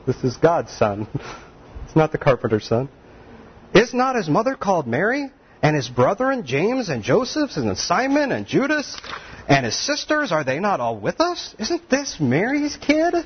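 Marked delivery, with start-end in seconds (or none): 3.7-13.1 incredulous mocking. Townspeople mocking Jesus's family.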